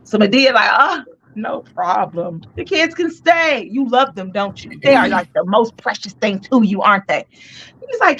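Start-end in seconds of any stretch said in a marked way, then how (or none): 0.7-7.2 sly sweetness. Retold or imitated. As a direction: lull him with fake kindness. Medea's sly fake agreement.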